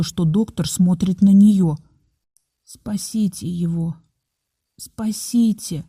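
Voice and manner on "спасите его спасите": soft, slow repeated plea; pleading like a prayer. A narrator's reading. Mother begs the doctor softly, like a prayer. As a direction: murmur it like a prayer. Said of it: "повторяла она как молитву".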